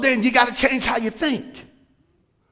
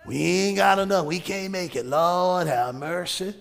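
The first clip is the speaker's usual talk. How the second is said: lightly voiced fretting complaint, slow with a sudden yelp; mock worried Jesus; 3 semitones lower, slower than usual. Preacher imitates a fretting Jesus to the congregation, mock worried complaint. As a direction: whine about prices like a worried shopper. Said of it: "can you hear Jesus talking like that".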